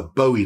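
"Bowie" with a long O, BOH-ee; pronunciation variant. Shown as a demonstration. Knife maker naming the knife for viewers, "Bowie" said BOH-ee. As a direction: say "Bowie" as BOH-ee, first vowel as in "go". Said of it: "I've heard it pronounced so many different ways".

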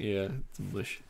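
mush with a Russian accent. Shown as a demonstration. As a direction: say it Russian style. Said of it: "said with accent".

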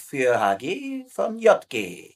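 reading slowly. Acted. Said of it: "Was steht denn da drauf?".

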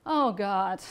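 mild weary sigh in the words. Acted. Depressed angel to the bear, lightly sighed. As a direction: let it out as an understated sigh. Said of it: "the angel sighed".

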